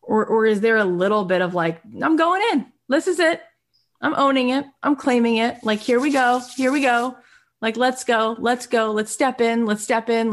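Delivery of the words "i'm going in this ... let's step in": high, eager, hyped-up voice; pumped-up self-talk. Pretend. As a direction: psych yourself up before going in. Hyping herself up to step in.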